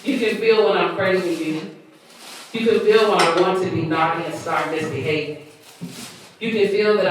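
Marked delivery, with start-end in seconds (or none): 0.1-5.4 measured spoken-word reading; poem recitation. Acted. Poet reciting own piece to listeners, spoken-word reading.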